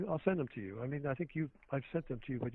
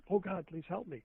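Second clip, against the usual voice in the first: mock panicked cry; 6 semitones higher than usual. Guest acting out passengers in a falling plane, mock panicked cry. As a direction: imitate a desperate passenger without really screaming. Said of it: "everybody in that cabin screams out".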